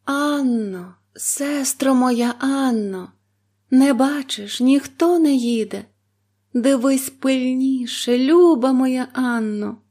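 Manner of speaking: high, drawn-out anxious call; wife calling anxiously to her sister; anxious plea. A narrator's reading. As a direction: call out in dread. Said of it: "безталанна жінка все питала".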